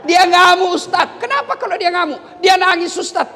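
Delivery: mock a husband grumbling to the cleric; hammed-up henpecked husband; complaining husband.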